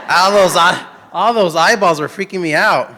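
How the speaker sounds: nervous laugh. Real, not acted. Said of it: "I can't see any of you now".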